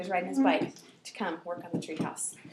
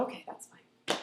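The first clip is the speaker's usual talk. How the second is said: quiet thought; 7 dB quieter than usual. Retold or imitated. Child's thought.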